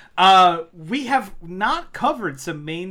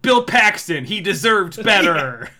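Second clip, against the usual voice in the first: announcer voice; 5 dB louder than usual. Acted. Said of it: "in the announcer voice".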